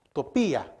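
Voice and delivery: "Utopía" said u-to-PÍ-a, with the stress on the í. Shown as a demonstration. Preacher teaching the congregation a word, stressing the í in "Utopía". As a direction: lean on the í in "Utopía". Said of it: "con acento en la I".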